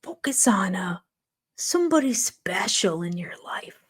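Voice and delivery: imitated soothing paramedic, whispered; mock whisper. Imitating a paramedic soothing a patient who cannot breathe. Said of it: "they say".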